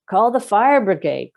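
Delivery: high, loud call for help; woman crying out over smoke, loud and high; frantic cry. Acted. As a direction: shout for the fire brigade in a panic. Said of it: "cried Missus Prothero".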